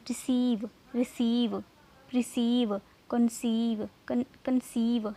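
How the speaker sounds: रिसीव and कंसीव with a long "ee" in the second syllable; long ee demo. Shown as a demonstration. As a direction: say रिसीव, कंसीव one by one, holding "see". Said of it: "ई की sound आए". (रिसीव, कंसीव में लंबी ई की ध्वनि)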